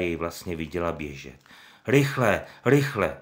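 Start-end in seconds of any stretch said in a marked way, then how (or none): 1.9-3.2 urgent raised call; shouting. Acted. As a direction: shout it out in alarm. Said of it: "křičel".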